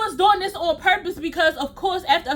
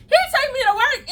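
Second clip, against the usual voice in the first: high laughing through words; 9 semitones higher than usual. Real, not acted. Retelling the drive to work, laughing high. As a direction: giggle through the line.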